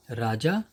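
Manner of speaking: राजा with J as in jar, rising at the end; undotted J in राजा; plain J sound. Shown as a demonstration. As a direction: say राजा carefully without a Z buzz. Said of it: "उसकी जो pronunciation है".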